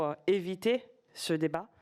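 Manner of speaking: normal talking voice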